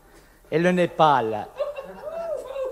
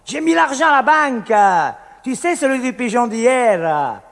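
mock shout across the bar; called out on entering. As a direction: call out your news as you come in. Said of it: "est entré en criant".

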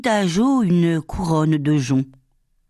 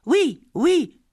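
put-on much higher, gleeful child's squeal; delighted yes; 10 semitones higher than usual. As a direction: squeal with joy while clapping. Child claps hands delighted.

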